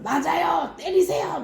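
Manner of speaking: high egging-on cry; jeering crowd. Acted. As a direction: egg them on like a mob. Council crowd urges beating.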